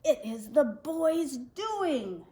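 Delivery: a hint of the brooding shark king; shark king, menacing.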